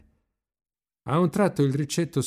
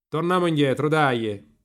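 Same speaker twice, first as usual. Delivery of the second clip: raised, high voice; urging call; 8 semitones higher, 6 dB louder than usual. A narrator's reading. Marcello urges the rower to turn back, raised high call. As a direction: call out to hurry him along.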